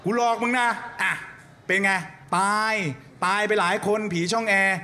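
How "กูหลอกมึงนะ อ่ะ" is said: high laughing boo shout. Pretend. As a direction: shout it gleefully. Ghost scaring, laughing shout.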